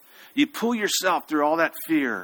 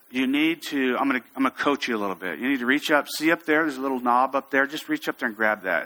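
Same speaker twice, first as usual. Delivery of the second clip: even, patient coaching voice; calm coaching; 2 semitones lower than usual. Retold or imitated. Instructor coaching a stuck climber, staying calm. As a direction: talk the climber through it calmly. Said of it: "I would always stay calm".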